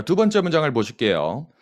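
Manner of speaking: ordinary talk, nothing marked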